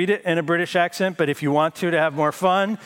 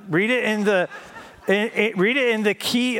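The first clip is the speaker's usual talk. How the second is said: laughing; 3 semitones higher than usual. Real, not acted. Laughing at the new joke.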